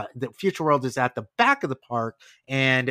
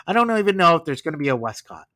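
Eisner impression; 3 dB louder, much faster than usual. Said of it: "in the Eisner accent".

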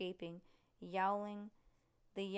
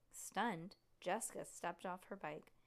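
usual speaking voice

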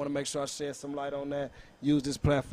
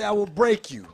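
higher, louder movie brute threat; Drago; 5 semitones higher, 6 dB louder than usual. Retold or imitated. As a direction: growl it like a hulking boxer villain. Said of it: "my boy Drago say".

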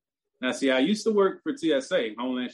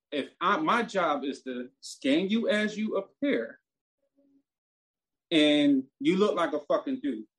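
retold snapping; 3 semitones higher than usual. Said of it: "I just snapped".

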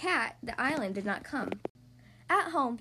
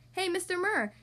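higher-pitched friendly call; 7 semitones higher than usual. A narrator's reading. Letitia hailing the superintendent in the lobby, calling out. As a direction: call out to get his attention. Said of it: "Letitia called out".

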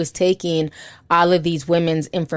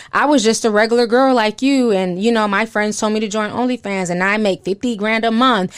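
mock the upbeat pitch of an online influencer; imitating an influencer; 3 semitones higher than usual. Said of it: "said influencer or said person".

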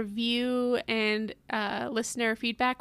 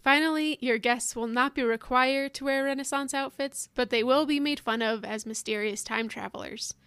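ad read. Acted. Reads a mock wedding ad.

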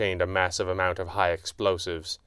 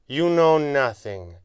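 higher, slow and drawn-out disdain; preening; 5 semitones higher, 3 dB louder, slower than usual. A narrator's reading. Villain dismisses the wounded hero, preening. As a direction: preen as you dismiss him, slowly. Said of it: "Shaw preened".

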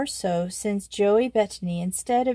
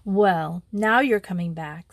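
firm. Acted. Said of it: "said Joey firmly".

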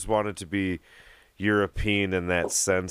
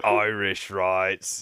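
very slow mock Scottish brogue; Sean Connery Scottish accent; much slower than usual. Guest doing Connery for the host, slow Scottish accent. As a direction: drag it out like Connery. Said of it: "Sean Connery".

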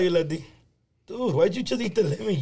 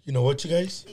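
mad teacher, retold; 5 semitones lower, 4 dB quieter, faster than usual. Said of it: "'Cause she was so mad".

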